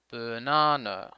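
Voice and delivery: slow "banana" with first and last vowels as uh; schwa at both ends. Shown as a demonstration. Teacher showing where schwa falls, slow "banana" with uh at both ends. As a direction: draw out "banana", relaxed uh in first and last syllables. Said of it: "first and last syllables have the schwa".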